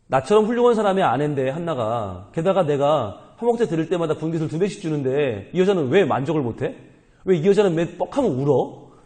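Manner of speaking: mildly exasperated husband's grumble; 이해 못하는 남편. Acted. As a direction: complain as if you just don't get her. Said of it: "이 남편은 지금 이해를 못하는 거예요". (이해 못해 답답해하는 남편 말투)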